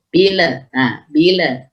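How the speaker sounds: "bila" with lam released into a stray vowel; wrong echoed lam on "bila"; tawallud. Shown as a demonstration. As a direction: release the l too early in "bila". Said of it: "Jangan dilepas".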